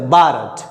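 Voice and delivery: भारत with plain b and hard t, "baarat"; English speakers' pronunciation. Shown as a demonstration. Teacher repeats how the English say it, anglicised pronunciation of भारत. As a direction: turn भारत into "baarat", no breath on the b. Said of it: "तो क्या बोल देते हैं वो?".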